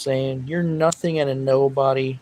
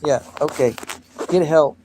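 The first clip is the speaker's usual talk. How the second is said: loud put-down; 4 dB louder than usual. Real, not acted. Dismissing a hater on live.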